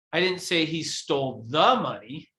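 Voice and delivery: the betont, fast fragend; stress on THE. Shown as a demonstration. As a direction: lean on the word the. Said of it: "depending on which word I emphasize".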